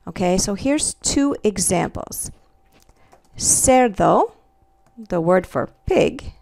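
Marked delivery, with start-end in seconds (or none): 3.3-4.3 cerdo with a soft S sound at the start. Shown as a demonstration. Teacher showing students the Spanish word for pig, soft C. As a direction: say cerdo opening on a hissed S. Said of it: "is a soft C".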